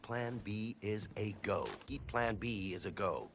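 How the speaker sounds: low, hushed plotting; covert orders. Acted. Plotter phoning a henchman about Plan B, hushed covert orders. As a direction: keep it down as you give covert instructions.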